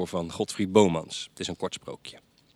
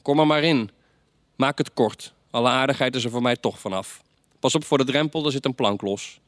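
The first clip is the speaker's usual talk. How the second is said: calling Death in; 5 semitones higher, 5 dB louder than usual. Acted. Storyteller calls Death inside.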